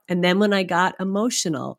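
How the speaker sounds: ordinary talk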